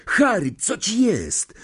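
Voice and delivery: high, urgent concern; worried calling. A narrator's reading. Friend tries to rouse fainted Harry, worried calling.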